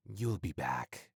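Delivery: slow, soft warning whisper; menacing whisper. Acted. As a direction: breathe the threat slowly. Final threat to packmate.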